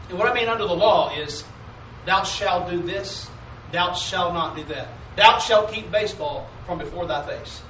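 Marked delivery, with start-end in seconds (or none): 2.0-7.6 mock commandments. Preacher mocking legalistic commandments.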